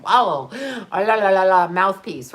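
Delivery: lightly voiced mock of the annoying YouTube guy, babbling la la la. Imitating the annoying guy she watched online, mildly mocking. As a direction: parody his babble with a sneer. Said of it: "That guy's so annoying".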